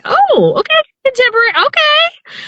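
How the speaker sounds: very high, startled okays; surprised. Retold or imitated. Narrator recalls being startled by contemporary romance offers. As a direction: squeak out a surprised okay. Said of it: "and I'm like".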